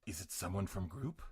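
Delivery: lightly voiced trailer announcer. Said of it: "trailer announcer voice".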